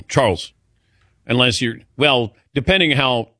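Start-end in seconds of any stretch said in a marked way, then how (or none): 0.0-0.5 Charles said as one syllable; one-syllable pronunciation. Shown as a demonstration. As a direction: keep Charles to a single beat. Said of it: "I would think one syllable".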